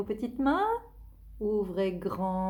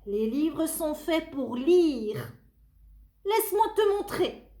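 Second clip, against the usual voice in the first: put-on child voice; 6 semitones higher, 3 dB louder than usual. Tony explains to monster.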